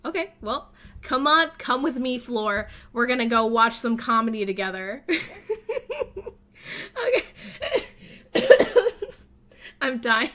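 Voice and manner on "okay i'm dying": helpless real laughter through the words; dying of laughter; laughing. Real, not acted. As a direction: crack up while saying it. Laughing hard at game.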